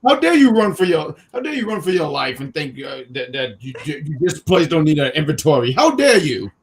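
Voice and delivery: hammed-up indignant boss; mock outrage. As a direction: scold in mock fury.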